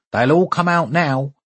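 put-on a touch of a croaky old neighbour calling; croaking old man. A narrator's reading. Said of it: "croaked Paul's elderly neighbour".

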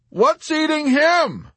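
high, slow, loud query; amused question. A narrator's reading. Arfi joking about Yossarian, amused high call. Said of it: "he asked with a laugh".

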